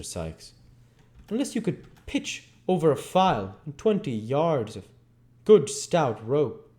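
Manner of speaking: rough, scornful man's voice; Sikes's voice. Acted. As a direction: sneer it like Bill Sikes.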